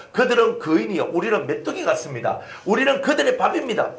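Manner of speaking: mock dismay, voice climbing at the end; retold alarm. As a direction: report it like a scout spreading alarm. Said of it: "백성들이 난리가 났는 거예요".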